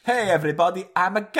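high comic pope voice; mock pope announcement. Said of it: "pope announcing coming out".

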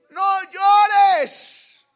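loud firm command, pitch high; commanding no llores. Retold or imitated. Preacher voicing Jesus to the weeping family, loud command. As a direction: tell the mourners firmly to stop. Jesus's words retold at the wake.

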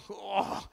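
retold gasp of alarm; mock cry of shock, not full volume; group's startled "oh", acted out; imitated frightened cry. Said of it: "y, y gritando".

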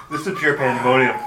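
laughing. Real, not acted. Still laughing after the pun.

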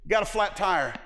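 high, loud whiny complaint; grumbler's whine. Retold or imitated. Preacher mocking a grumbler, high whiny moan.

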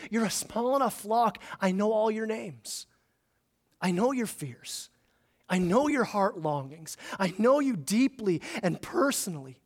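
soft, gentle reassurance; tender shepherd. Acted. Shepherd reassuring his small flock, softly tender. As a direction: speak to the flock like a caring shepherd. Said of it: "this tender way of, of a shepherd saying".

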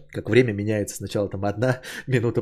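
ordinary delivery

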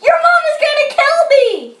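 high, fast, loud outcry; story-reader's high yell; panicked aunt's yell. A narrator's reading. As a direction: yell it in a rush. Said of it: "yelled the aunt".

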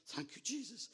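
high-pitched acted thanks, not yet shouted; relieved praise. His relieved reaction, first take.

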